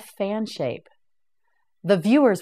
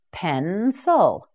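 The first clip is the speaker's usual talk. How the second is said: Pencil drawn out slowly, each syllable clear; slow, stretched model. Shown as a demonstration. Teacher modelling Pencil slowly for learners. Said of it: "teacher models the word slowly".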